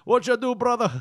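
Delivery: high, loud hammed-up wrestler voice; over-the-top Bill Dundee shout; Bill Dundee impression. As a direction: boom it out like a hyped wrestling promoter. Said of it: "I think you're doing Bill Dundee doing that now".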